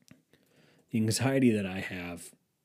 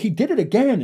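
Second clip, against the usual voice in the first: high, loud mock whine; Max Verstappen; 10 semitones higher, 8 dB louder than usual. Driver complaining to his pit box, high and whiny. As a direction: whine it like an outraged tattletale. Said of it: "They are the most whiny".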